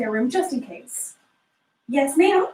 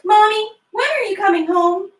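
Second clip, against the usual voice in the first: put-on higher, louder pleading little-girl voice; a child begging mommy to come home; young daughter asking her mother on the phone when she's coming home; 7 semitones higher, 4 dB louder than usual.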